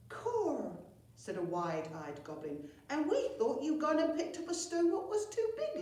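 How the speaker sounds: high, loud wide-eyed wonder; high goblin amazement; amazed goblin. Acted. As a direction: gasp it in awe.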